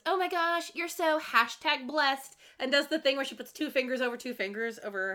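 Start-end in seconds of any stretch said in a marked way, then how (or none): 0.1-2.4 high-pitched, drawn-out mock gushing; gushing mock Lola. Recapping Lola congratulating her friend, mock gushing. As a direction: stretch out the hashtag phrase, hammed-up. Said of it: "So Lola goes".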